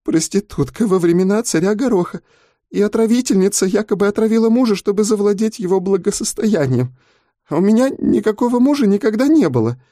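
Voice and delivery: a scared teacher barely holding back tears; young teacher telling a fellow prisoner her plight; frightened young woman. A narrator's reading. Girl recounts charges in tears.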